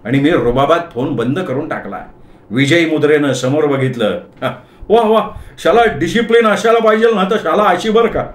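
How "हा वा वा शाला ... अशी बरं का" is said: put-on high-pitched, delighted elderly praise; pleased old Parsi. Parsi officer commending the husband's discipline, high pleased voice. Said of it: "ढोलकवाल्यानं खुश होऊन certificate दिलं".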